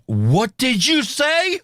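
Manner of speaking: high, slow sugary Southern woman; Southern woman's threat. Retold or imitated. Host voicing a Southern woman, high slow sweet threat. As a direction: ask it sweet and slow with menace underneath. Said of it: "If a Southern woman says".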